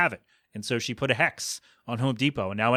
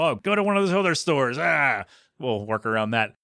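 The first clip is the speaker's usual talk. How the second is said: mock rudeness. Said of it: "very curt and very rude with her".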